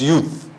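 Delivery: "youth" ending on a clean th, no s; singular, no S. Shown as a demonstration. Host correcting the paper's plural, "youth" without an s. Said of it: "It does not have a plural".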